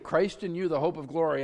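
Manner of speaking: Christ in you proclaimed with eager energy; the pastor's own excited version of the verse; excited preaching. Shown as a demonstration. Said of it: "I'm up here all excited".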